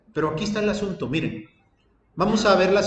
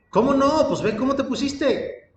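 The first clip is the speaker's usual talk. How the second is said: higher-pitched, incredulous comeback; exasperated protest; 6 semitones higher than usual. Retold or imitated. Man challenges his upset partner's denial, exasperated protest. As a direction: push back in a raised pitch, as a retold partner. Acted couple argument, he protests.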